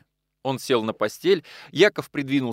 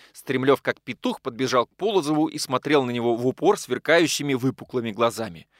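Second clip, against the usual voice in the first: ordinary delivery, nothing marked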